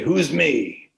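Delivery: lightly imitated gruff grandfather; play-challenge with a touch of gruffness; John Coolidge. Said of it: "very gruff, low voice, John Coolidge".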